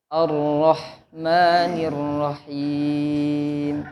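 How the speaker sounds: slow Ar-Rahmanir-Rahim with a heavy ro; drawn-out Ar-Rahmanir-Rahim, ro thickened; thick ro again. Shown as a demonstration. Teacher repeats heavy ro for the pupil. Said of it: "rohnya tebalin lagi".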